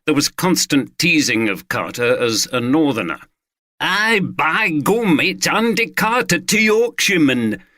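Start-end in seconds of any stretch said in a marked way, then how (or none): 3.8-7.6 slow, hammed-up mock Yorkshire accent; clumsy Yorkshire parody. London mates teasing Carter in a clumsy mock Yorkshire accent. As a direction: tease him in a bad Yorkshire accent. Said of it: "delivered in clumsy parodies of a Yorkshire accent".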